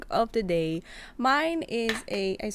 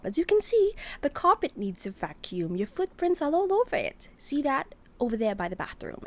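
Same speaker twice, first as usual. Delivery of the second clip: fussy; 3 semitones higher, 3 dB louder than usual. Acted. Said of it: "Sabi niya".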